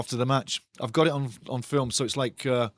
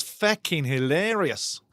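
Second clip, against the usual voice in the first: drawn-out chat read; slower than usual. Acted. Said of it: "Milky Moo says".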